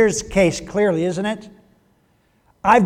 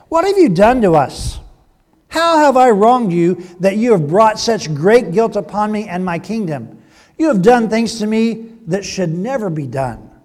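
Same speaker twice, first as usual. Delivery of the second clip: louder, higher reproach; a wronged king demanding answers; indignant king; 4 semitones higher, 6 dB louder than usual. Acted. King confronts Abraham.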